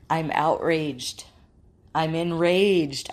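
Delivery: slow, emphatic mild outrage; acted anger. Speaker voicing a griever in the anger stage, acted outrage. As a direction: stretch the words with building indignation. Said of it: "the stage of anger".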